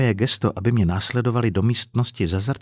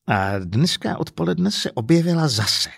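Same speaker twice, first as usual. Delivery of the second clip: higher-pitched, exasperated complaint; indignant, raised pitch; agitated account; 6 semitones higher than usual. Acted. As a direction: pick the story up, worked up. Upset man resumes his complaint.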